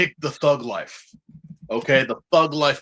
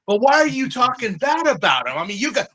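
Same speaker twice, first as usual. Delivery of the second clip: pressing shout; 8 semitones higher than usual. Retold or imitated. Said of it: "I'm like".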